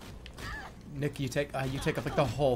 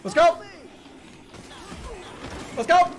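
excited; 8 dB louder than usual. Real, not acted. Gamer hyping up to start.

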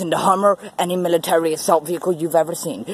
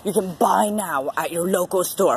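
chipper 1950s ad; much faster than usual. Acted. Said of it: "mock ad pitch".

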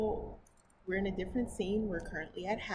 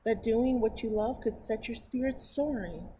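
slightly higher, clearer storybook reading; story narration; 5 semitones higher, 4 dB louder than usual. Acted. Reading a picture book to her viewers, storybook narration. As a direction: read it aloud to children.

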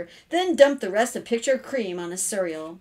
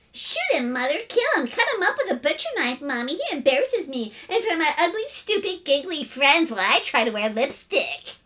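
put-on high, rapid-fire girlish tirade; hysterical outrage; 7 semitones higher, 3 dB louder than usual. Sister begging mother to punish her brother, outraged. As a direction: wail to mother in melodramatic fury.

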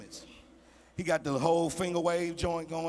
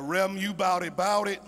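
louder rapper shoutout; hip hop shoutout; 4 dB louder than usual. Retold or imitated. Visitor giving the pastor a rap shoutout. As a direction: hype it like a rap ad-lib. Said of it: "all I know is hip hop language".

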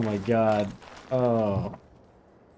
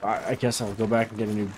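stumbling over the words; stuttering. Real, not acted. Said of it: "Also stuttering a little bit".

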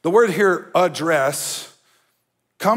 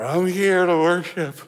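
mock drunk worshipper. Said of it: "like you're drunk. Be like".

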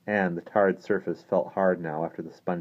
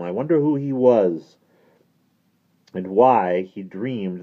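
loud, higher, declamatory voice; emphatic old-story priest, pitched up; animated priest character; 5 semitones higher, 8 dB louder than usual. Acted. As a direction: hold forth with theatrical energy.

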